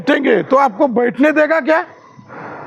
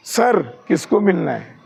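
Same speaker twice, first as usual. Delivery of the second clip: respectful query; 5 semitones lower, 3 dB quieter than usual. Retold or imitated. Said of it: "आप क्या बोलेंगे?".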